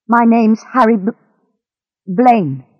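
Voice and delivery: halting on the name, then restarting; mildly scared, broken delivery; nervous stammer. Acted. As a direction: give your name nervously, catching on the first sound. Captive stammers his name.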